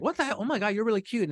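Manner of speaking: mom. Acted. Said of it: "She was like".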